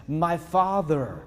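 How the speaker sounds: drawn-out, slow cry of my father; exclaimed call. Retold or imitated. Isaac on the mountain calls out slowly to his father. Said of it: "Exclamation point".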